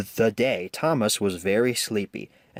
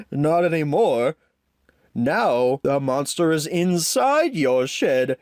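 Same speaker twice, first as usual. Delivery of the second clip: laughing teasingly; 4 semitones higher, 3 dB louder than usual. A narrator's reading. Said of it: "Gordon laughed".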